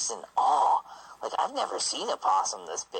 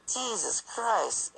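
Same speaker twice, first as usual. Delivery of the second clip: slow awed exclamation; 11 semitones higher, much slower than usual. Real, not acted. Awe at huge possum.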